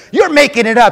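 high, shouted disbelief; incredulous accusation. Retold or imitated. Man doubting the one he prayed for, incredulous shout.

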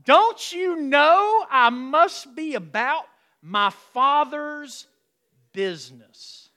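slow, high, loud preacher's shout; shouted climax. Shown as a demonstration. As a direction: roar it out slowly to the room. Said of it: "Turn to your neighbor and say".

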